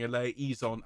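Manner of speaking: "eleison" as e-lay-EE-zon; mistaken vowel. Retold or imitated. Choir leader quoting the soloist's slip, "eleison" as e-lay-EE-zon. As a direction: say "eleison" with an added "ee" before zon. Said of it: "didn't get the note and she sang".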